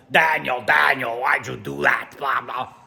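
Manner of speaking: slow, whiny internet nag calling Daniel; lightly mock the nagging voice of the internet; internet nag impression. Vlogger mocks online commenters with a whiny nagging voice. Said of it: "That's my impression of what the internet would sound like".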